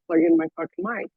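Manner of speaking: thin, tinny laptop-mic voice; tinny mic sound. Real, not acted. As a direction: sounds like in a tunnel. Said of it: "You sound like you're in a tunnel".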